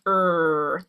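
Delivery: "er" as one long R-coloured vowel; schwa R. Shown as a demonstration. Coach isolates the schwa R, drawing it out. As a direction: hold "er" like a growl. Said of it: "like a mad dog".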